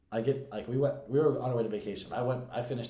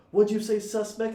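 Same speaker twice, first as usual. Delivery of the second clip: much higher, louder retold challenge; irate guard; 11 semitones higher, 6 dB louder than usual. Guard challenging the cuffed man who asked for help, mock-irate.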